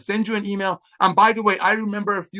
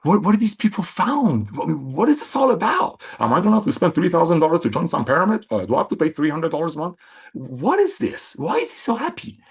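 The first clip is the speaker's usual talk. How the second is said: curious friends. Pretend. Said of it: "Have people say".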